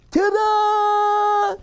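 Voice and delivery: high, bright showman flourish. Acted. Bear pops from hat, showy ta-da. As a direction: announce it like a magic reveal.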